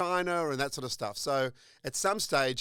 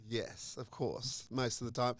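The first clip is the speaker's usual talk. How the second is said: whispered echo; 3 semitones lower, 8 dB quieter, slower than usual. Real, not acted. Host echoes the whispered aside.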